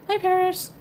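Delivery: high, loud put-on demon cat voice. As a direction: greet the cat in a squeaky creature voice. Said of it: "There's Demon Cat voice".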